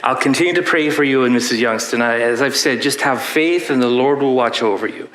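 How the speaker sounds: Irish priest, badly faked accent. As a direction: reassure her in a clumsy Irish brogue. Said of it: "this is the worst Irish accent you've ever heard".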